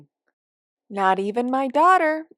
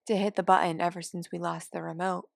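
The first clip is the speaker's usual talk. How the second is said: whisper; 2 semitones lower, 5 dB quieter than usual. Acted. Conspiratorial aside about the remote.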